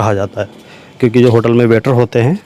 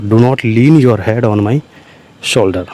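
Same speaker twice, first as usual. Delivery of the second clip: slow dictation; 2 semitones lower, much slower than usual. Shown as a demonstration. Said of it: "teacher repeats phrase for learners".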